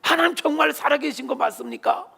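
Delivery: high, slowed, accusing demand; demanding God. Acted. Father at the church, demanding answers from God, high and accusing. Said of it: "하나님을 향하여 따지듯이".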